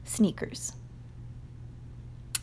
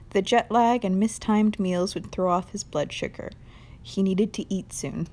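clear, louder reading-aloud voice; story narration; 4 dB louder than usual. Acted. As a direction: read the passage like an audiobook. Reads a novel passage aloud.

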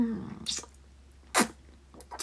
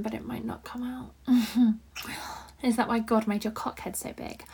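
whispering. Acted. Whispered roleplay.

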